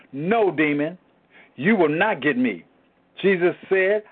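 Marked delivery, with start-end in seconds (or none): 0.1-2.6 calm reply. Shown as a demonstration. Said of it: "I calmly reply".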